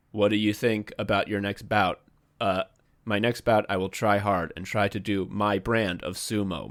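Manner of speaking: lightly voiced weary interpreter; low, subdued, toneless reading; sleepy translator. Translator relaying a wrestler's interview, lightly imitated as sleepy. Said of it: "seem like they've never slept".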